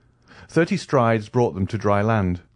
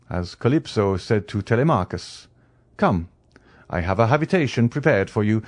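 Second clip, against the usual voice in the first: lightly voiced Count, lilting higher on key phrases; welcoming Count; 3 semitones higher than usual. Count welcomes his dripping young friend ashore, mildly animated. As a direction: play a mildly animated, hospitable host.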